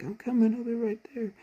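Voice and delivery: high, loud call back to the wounded; medic calling back. Retold or imitated. Hypnotized medic answers the wounded, high loud call. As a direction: shout it out across a battlefield.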